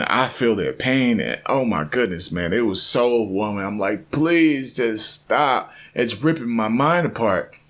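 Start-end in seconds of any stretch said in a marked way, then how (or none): 4.1-7.6 high, drawn-out begging; retold overwhelmed plea; acted pleading. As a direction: plead for it to stop, stretched out.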